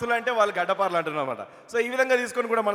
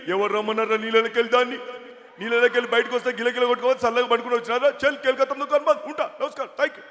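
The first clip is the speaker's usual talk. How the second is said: lightly mimicked politician rambling; వి Hanumantharao impression; 2 semitones higher than usual. Politician chiding after his song and signing off, mimicked. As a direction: run on in the put-on voice. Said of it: "MP వీరమంతరావు గారు".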